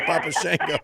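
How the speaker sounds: Shango as SHANG-go, Southern style; Memphis pronunciation. Shown as a demonstration. Host quoting Memphis people, Shango rhyming with tango. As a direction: say Shango with a short "a". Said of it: "the way we did pronounce it down here in Memphis".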